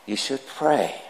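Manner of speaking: mild, hushed fatherly reproof; gently admonishing priest. Acted. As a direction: chide him softly, with a lift on the advice. Priest gently admonishing swearing trucker in joke.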